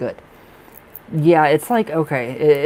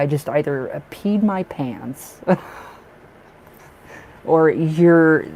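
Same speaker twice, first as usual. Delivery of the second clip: laughing self-quote; slower than usual. Retold or imitated. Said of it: "I'm like".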